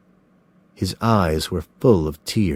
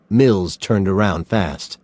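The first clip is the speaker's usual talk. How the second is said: usual speaking voice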